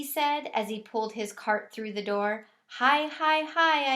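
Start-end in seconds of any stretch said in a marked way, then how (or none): 2.7-3.9 high, louder squeaky hi; hamster greeting. A narrator's reading. Hamster squeaking hello to the custodian.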